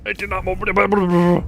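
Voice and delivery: slow, drawn-out put-on voice; slow deadpan echo; slow mocking repeat. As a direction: drag it out slowly, mocking. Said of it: "repeated slower".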